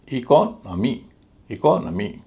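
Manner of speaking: इकोनॉमी with light i, heavy ko, light nə: i-KO-nə-mee; correct pronunciation. Shown as a demonstration. Teacher repeating the right इकोनॉमी slowly. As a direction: stress KO in इकोनॉमी, reduce the vowel after it. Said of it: "पूरे शब्द का उच्चारण होगा".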